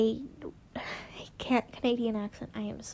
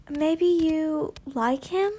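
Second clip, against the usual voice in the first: careful and gentle; 4 semitones higher, slower than usual. Acted.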